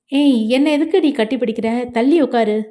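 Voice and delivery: mildly annoyed rebuff; open dislike. Acted. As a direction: push them away with irritation. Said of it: "அந்த வெறுப்பை தெளிவாக கொடுத்தான்". (லேசான வெறுப்புடன் விலக்கும் தொனி)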